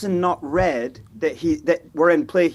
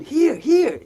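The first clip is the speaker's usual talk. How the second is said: calling out; 9 semitones higher, 3 dB louder than usual. Retold or imitated. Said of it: "he was going".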